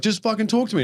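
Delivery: high, whiny plea; squeaky pleading. Retold or imitated. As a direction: squeak it out like a desperate guest. Prank guy pleading with Doctor Phil.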